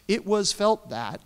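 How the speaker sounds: slow, deliberately formal phrasing; passive voice. Shown as a demonstration. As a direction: say it as a stiff bureaucratic passive. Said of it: "I'm going to use the passive voice here".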